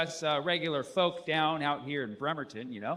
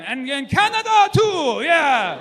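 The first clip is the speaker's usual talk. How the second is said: high, loud reluctant add-on; mock reluctant shout; grudging shout; 9 semitones higher, 10 dB louder, slower than usual. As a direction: shout it like an afterthought. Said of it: "So he's like, "Fine".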